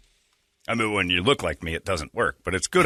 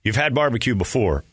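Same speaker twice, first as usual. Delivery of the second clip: ad read; 3 semitones higher than usual. Acted. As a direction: sell the barbecue like a radio ad. Host reads sponsor ad.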